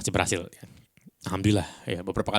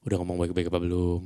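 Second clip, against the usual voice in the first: mildly soothing DJ tone; late-night DJ intonation; 2 semitones lower than usual. Shown as a demonstration. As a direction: step into a quarrel with midnight-radio calm. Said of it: "dengan intonasi D J tengah malam ini".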